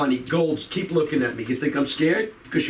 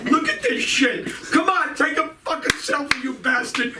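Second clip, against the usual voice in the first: excited shout; 8 semitones higher than usual. Real, not acted. Comic excited with audience member.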